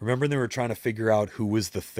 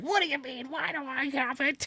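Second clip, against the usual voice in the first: very high, pissed-off, angry voice; 4 dB quieter than usual. Retelling Susan's reaction to being told she has bad energy: imitating Susan pissed off. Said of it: "gets all pissed".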